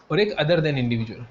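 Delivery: slow, deliberate dictation; slow teaching emphasis. Shown as a demonstration. Teacher stressing the split for students, slowly. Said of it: "क्या बोला मैंने?".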